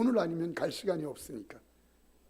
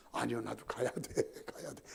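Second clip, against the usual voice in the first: put-on drunken insistence; 7 semitones lower, 10 dB quieter than usual. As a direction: slur that you must go home too. (취한 형님의 낮고 느린 고집)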